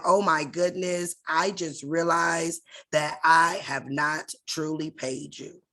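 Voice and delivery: slow, drawn-out mock realization; sarcastic. Speaker retelling how they answer creditors, sarcastic. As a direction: lightly feign a sudden realization, taking your time. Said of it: "I get a little sarcastic".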